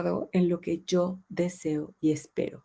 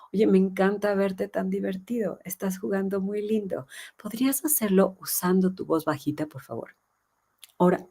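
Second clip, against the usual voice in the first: a softer, coaxing mom asking for a quiet voice; gentle positive request; 4 dB quieter than usual. Shown as a demonstration. Mom gently asks a noisy child to play quietly, coaxing. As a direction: kindly invite the child to use a little voice. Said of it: "Le podríamos decir algo como".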